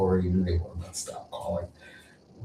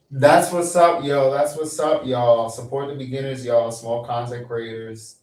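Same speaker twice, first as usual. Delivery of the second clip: high, loud hype shout-out; mock hype-man shout-out; hype streamer voice; 3 semitones higher, 4 dB louder than usual. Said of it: "I'm not gonna speak like that".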